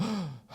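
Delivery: relieved gasp. Retold or imitated. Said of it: "I stop crying and go".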